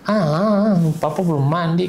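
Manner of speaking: a hint of a whiny child fending off dad; childlike protest. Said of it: "tapi dia kayak anak kecil". (agak menirukan rengekan anak kecil)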